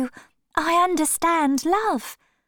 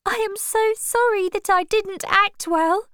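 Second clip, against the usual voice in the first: very high, tearful begging, slowing at the end; a heartbroken girl begging at his feet; crying plea. Acted. Sybil begging Dorian not to leave her, high and tearful. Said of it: "A strange cry came from her".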